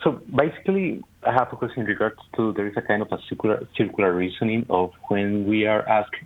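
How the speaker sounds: speakerphone echo in a big room; hollow, roomy speakerphone sound; echoey. Real, not acted. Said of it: "you sound kind of echoey".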